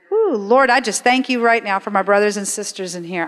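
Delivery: earnest spoken prayer to God. Acted. Pastor praying over the congregation, earnest. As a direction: pray it out sincerely.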